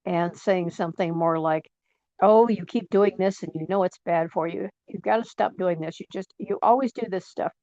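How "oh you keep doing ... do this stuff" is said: lightly voiced critical parent, a touch harsh; mildly scold, as an imitated nagging parent. Critical parent scolding you over a bad habit, mildly harsh. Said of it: "very harsh".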